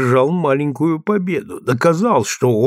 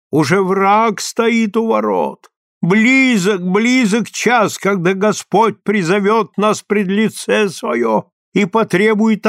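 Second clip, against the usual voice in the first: higher and slower, fervent preaching; passionate, rapturous; 8 semitones higher, 3 dB louder than usual. A narrator's reading. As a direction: proclaim doom with ecstatic zeal. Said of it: "голос его зазвучал страстно и восторженно".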